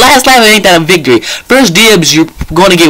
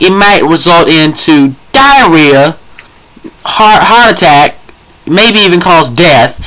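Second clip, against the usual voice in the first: mock warning readout; slower than usual. Reads painkiller warning label in mock.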